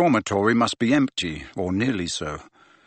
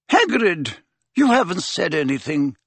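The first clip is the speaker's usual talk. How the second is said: a firm, raised teacher's voice; stern headmistress; 6 semitones higher than usual. A narrator's reading. Deputy head prompting Hagrid, firm and raised. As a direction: prompt the silent gamekeeper kindly but firmly.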